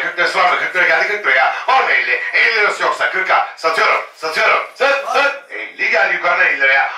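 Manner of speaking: rapid auction bid calling; auctioneer. Real, not acted. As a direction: call the bids like an auctioneer. Live auction calling bids.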